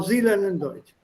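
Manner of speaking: "sie lernen Deutsch" falling at the end; statement tune. Shown as a demonstration. Teacher giving a possible answer, falling statement tune. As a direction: state it plainly, dropping on "Deutsch".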